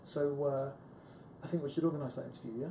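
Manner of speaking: soft, quick persuasive close; lightly imitated smooth persuader. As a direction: slip in an agreeing tag at the end. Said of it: "this very persuasive way where he'd say".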